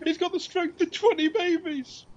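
high, loud, slow delivery cracking up; laughing commentator shout. Retold or imitated. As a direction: yell it while losing it. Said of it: "He's like".

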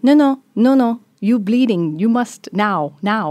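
retold urgent shouting. Doctors insisting she must have surgery, loud and urgent.

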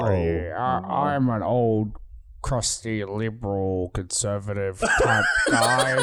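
put-on old crusty Geordie bloke; slow, lightly Geordie accent. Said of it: "Actually sounds like friendly Geordie".

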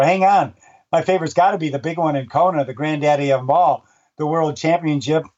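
light book reading, lively and changing its mind; reading aloud from his book. Acted. Announcer reads his book passage to the host, lightly voiced. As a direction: read the passage like a playful list. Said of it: "I'll read it to you".

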